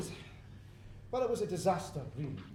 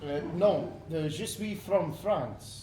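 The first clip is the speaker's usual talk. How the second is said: a bad, slow put-on French accent; a Scot hamming up a French accent; a Scot faking French to order a beer; fake French accent; 4 dB louder, much slower than usual. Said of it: "You don't sound very French to me".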